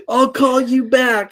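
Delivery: slow, laughing phone sign-off. Real, not acted. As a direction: barely get it out while cracking up. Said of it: "I can't talk".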